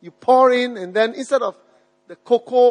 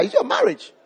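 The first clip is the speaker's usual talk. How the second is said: "your" lifted higher, ends in a rise; rising repeat; 9 semitones higher than usual. Shown as a demonstration. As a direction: toss "your" up as a teasing question. Preacher repeats answer as question.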